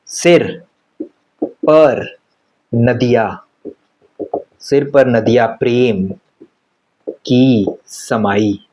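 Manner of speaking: word by word with long pauses between; reciting the trick. Shown as a demonstration. Teacher reciting the memory trick to the class, pausing word by word. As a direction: lay out the mnemonic one word at a time. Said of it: "अब इसका trick देख लो".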